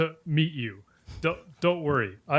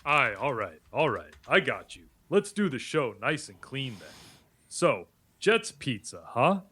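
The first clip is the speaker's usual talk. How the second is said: lightly voiced Italian tough guy; a hint of a brash Italian-American; Italian-American accent. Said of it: "I want you to stay as Tony".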